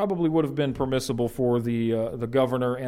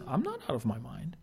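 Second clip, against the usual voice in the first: calm and polite; 3 semitones higher, 3 dB quieter than usual. Retold or imitated. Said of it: "He responds very politely, very calmly".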